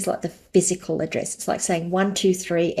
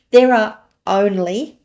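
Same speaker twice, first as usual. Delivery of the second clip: "only" drawn out slow and louder; underscoring only; 6 dB louder, slower than usual. Real, not acted. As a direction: lean hard on "only", slowly. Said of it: "and I'm underscoring that".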